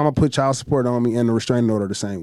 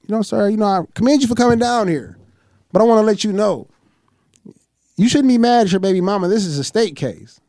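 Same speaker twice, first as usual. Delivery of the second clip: white lady clerk; 6 semitones higher than usual. Retold or imitated. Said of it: "She like".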